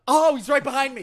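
loud, high mock fright; spooked by Goldust behind him; mock startled. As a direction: jump as if spooked.

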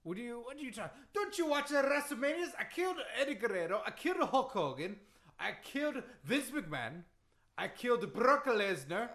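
put-on indignant, accented list of victims; Iron Sheik. Wrestler boasting to a doubting host, indignant accent. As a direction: insist on it in broken English. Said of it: "that Iron Sheik impression".

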